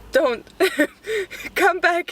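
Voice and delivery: high playful calling back. Real, not acted. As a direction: call them back teasingly.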